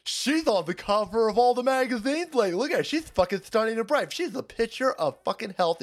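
mock fawning TMZ reporter; gushing reporters. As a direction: fawn over her like a paparazzo. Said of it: "they're like".

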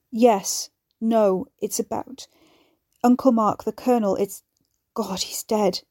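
shaky, breaking with grief. Acted. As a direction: voice cracking on the news. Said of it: "Guy said, breaking".

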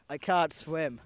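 put-on Mexican accent. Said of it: "I do a Mexican accent".

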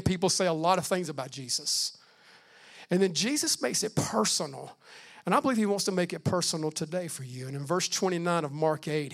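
normal talking voice

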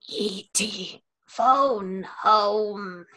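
E T impression. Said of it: "That was so good".

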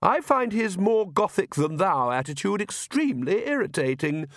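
high-voiced Countess broaching a complaint; Countess, genteel and insistent. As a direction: raise the pitch for a decided wife. Narrator plays the Countess.

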